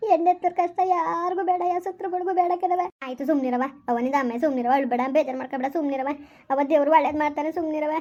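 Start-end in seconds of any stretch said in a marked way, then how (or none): 3.1-7.9 lower, gentle hush; soothing. Acted. Daughter calms her crying mother.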